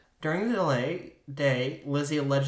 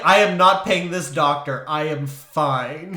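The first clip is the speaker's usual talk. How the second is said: put-on louder, slow cranky old coot; 2 semitones higher, 10 dB louder than usual. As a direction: grumble like a stingy old man. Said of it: "my old coot voice".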